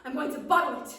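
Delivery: high, loud, grumbling gnome. Acted. Gnome confesses to the witch he hates serving steaks, high and loud. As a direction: complain loudly like a tiny food-hating gnome. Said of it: "he said it's".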